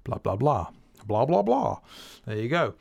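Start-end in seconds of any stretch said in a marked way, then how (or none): 0.0-0.7 three vocalised flams in a row; drum speak. Shown as a demonstration. Drummer showing three flams together, drum speak. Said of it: "flams together". 1.0-1.8 three vocalised flams climbing in pitch; drum speak. Shown as a demonstration. Drummer repeating three flams together, rising drum speak. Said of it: "flams together".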